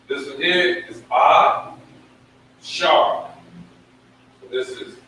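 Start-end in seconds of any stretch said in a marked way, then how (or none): 0.1-3.3 slow "Ah... Shar" in two separate beats; teacher sounding out Ah Shar; sounded out. Shown as a demonstration. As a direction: drag out "Ah" then "Shar". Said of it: "this is how you pronounce it".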